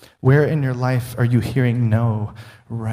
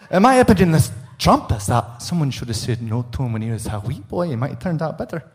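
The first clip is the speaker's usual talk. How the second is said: put-on Scottish accent; faster than usual. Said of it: "I wanted to speak in a Scottish accent".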